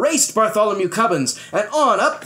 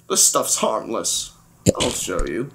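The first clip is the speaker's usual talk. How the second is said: lower, offhand bravado; dismissive; 8 semitones lower, 4 dB quieter than usual. Acted. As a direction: wave off the danger coolly. Captain boasting, dismissive.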